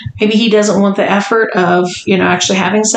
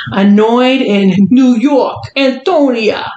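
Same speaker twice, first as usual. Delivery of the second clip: slow emphatic sign-off; slower than usual. Acted. Reading the sign-off, dragged out.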